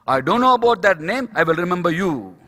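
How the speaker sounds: loud, mildly angry retort in a retelling; retold anger. Preacher quoting the angry man's reply, mock anger. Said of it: "He got even more angry with me".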